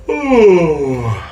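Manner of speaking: long, falling yawn-like "ooh"; yawning sigh. Shown as a demonstration. Coach showing singers how a yawn opens the vowel, yawning sigh. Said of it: "See, if you yawn".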